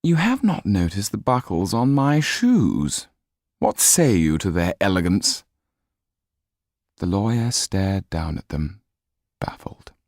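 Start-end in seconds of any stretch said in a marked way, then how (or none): 0.0-5.4 high, petulant aristocrat whine; peevish Marquis. Acted. Marquis fretting to the lawyer, peevish. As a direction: sulk about the buckles. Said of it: "said peevishly".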